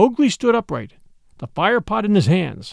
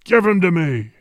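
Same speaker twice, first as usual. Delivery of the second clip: tiger demanding. A narrator's reading. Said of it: "howled Shere Khan".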